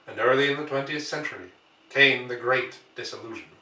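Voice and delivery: measured, storyteller's reading voice; story narration. A narrator's reading. Storyteller reading War of the Worlds to his viewers, measured narration. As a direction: read it like a classic novel to listeners.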